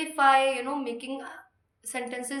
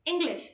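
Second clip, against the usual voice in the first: "English" said alone, pitched up and falling; stress on ENGLISH; 4 semitones higher than usual. Shown as a demonstration. Teacher repeating the stressed word, "English" higher. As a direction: lift "English" high, then drop. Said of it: "I stressed on the word English".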